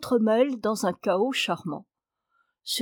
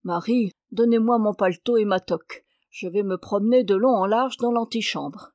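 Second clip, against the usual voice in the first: impatient. Acted. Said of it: "Monsieur impatienté".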